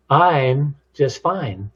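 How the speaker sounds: slow, pause after a drawn-out "I'm"; different tone. Shown as a demonstration. Showing different tones on one answer, "I'm" drawn out. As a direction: stretch "I'm", then finish "just fine". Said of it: "Those different tones of voices".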